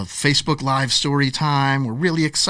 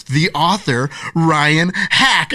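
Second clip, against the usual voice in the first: building announcement, louder on the name; proud reveal; 4 semitones higher, 3 dB louder, much slower than usual. Retold or imitated. Mom revealing the author to her kids, proud announcing build. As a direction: lift toward "Ryan Hack" like a big reveal.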